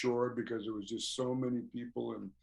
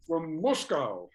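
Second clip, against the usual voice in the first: slow, higher, lightly voiced Russian fan; imitating the Russian fan; 5 semitones higher, much slower than usual. Fan from Moscow explaining where he is from, slow imitation. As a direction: drag it out like the earnest fan from Moscow.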